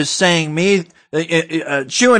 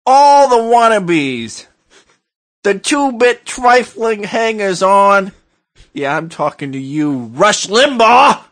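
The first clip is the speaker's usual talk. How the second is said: slow mock tirade; 2 semitones higher than usual. Rant against rival hosts.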